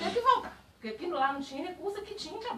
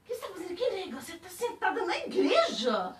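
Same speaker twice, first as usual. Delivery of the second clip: teasing, laughing, high; playful teasing; 7 semitones higher, 3 dB louder than usual. Retold or imitated. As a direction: tease her affectionately with a laugh. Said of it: "Brincando, do jeitinho que eu falava com ela". (brincando, rindo, agudo)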